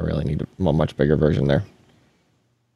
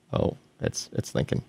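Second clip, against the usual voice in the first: whispering; 10 dB quieter than usual. Real, not acted. Waiting on a slow computer.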